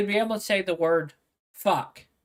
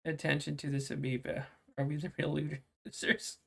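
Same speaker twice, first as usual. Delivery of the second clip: mock announcement; 4 semitones lower, 10 dB quieter than usual.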